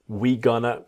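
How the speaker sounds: "We gonna" said without "are", the learners' error; incorrect demo. Shown as a demonstration. Teacher imitating the wrong "we gonna" as a warning. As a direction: drop "are" to show the mistake. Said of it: "completely incorrect".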